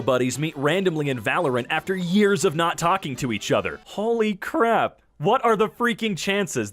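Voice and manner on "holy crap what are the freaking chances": amazed disbelief. Real, not acted. Amazed at buddies meeting again.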